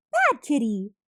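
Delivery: loud sharp scold at the cat; shouted scolding. Acted. Mom shouting at the cat under the broom, loud scold. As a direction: yell it at the naughty cat. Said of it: "shouted Mom".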